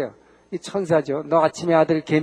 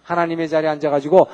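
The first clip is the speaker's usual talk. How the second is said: ordinary talk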